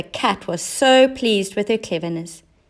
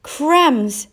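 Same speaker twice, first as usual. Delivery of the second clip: surprised; 7 semitones higher, 4 dB louder than usual. A narrator's reading. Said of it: "said Clever Cat".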